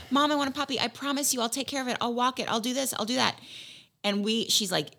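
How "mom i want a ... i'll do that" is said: put-on begging child. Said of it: "her daughter was begging her".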